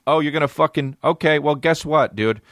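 high, whiny mimicry; mocking the driver. Comic mimics the driver's parking advice, high and whiny. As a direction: sneer his advice back at him. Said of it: "imagined retort".

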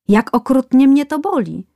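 tattooed man crying out to the barber in pain; pained outcry. Acted. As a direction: wail it as the needle bites. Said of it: "nasz bohater zaczął krzyczeć".

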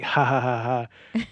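"Ha" repeated with an h, as a spoken laugh; spoken, pretend laugh on "Ha"; mock Mexican laugh. Shown as a demonstration. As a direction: imitate a typed laugh, "Ha" by "Ha". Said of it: "This is a Mexican laugh".

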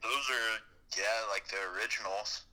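phone speaker. Real, not acted. Caller on speakerphone.

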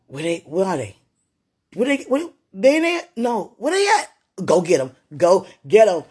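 high, loud searching calls; urgent calling out. Retold or imitated. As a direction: shout for them to be found. Voicing people searching urgently.

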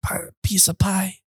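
hushed, raspy mock Godfather. Doing The Godfather for friends, hushed mock mob boss. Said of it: "Godfather, though".

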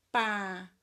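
"Papelada" said as four separate syllables. Shown as a demonstration. Teacher dictating to pupils who look for digraphs, syllable by syllable. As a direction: leave a clear gap after each syllable. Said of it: "Separa as sílabas".

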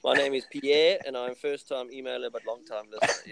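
lightly put-on French accent. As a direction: read it with a hint of French. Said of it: "putting on a French accent was gold".

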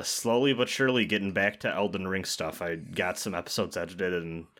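usual speaking voice

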